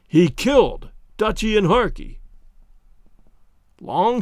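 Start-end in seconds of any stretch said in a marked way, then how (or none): 0.1-2.2 louder, flat, stubborn insistence; dogged repetition. Acted. Husband stubbornly answers wife's pleas, dogged and firm. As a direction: hammer it home without feeling. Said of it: "dispassionately, doggedly".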